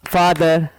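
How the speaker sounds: "father" measured out as two clappable beats; two-beat syllables. Shown as a demonstration. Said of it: "you can clap two times".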